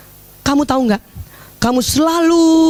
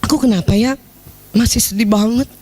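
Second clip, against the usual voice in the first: soft sad plea; 5 semitones lower than usual. Shown as a demonstration. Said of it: "jadi gini".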